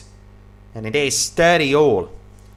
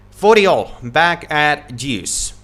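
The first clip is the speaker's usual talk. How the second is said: excited score call; 2 semitones higher, 5 dB louder, slower than usual. Real, not acted. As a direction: announce the score with a jolt. Excited score call after net.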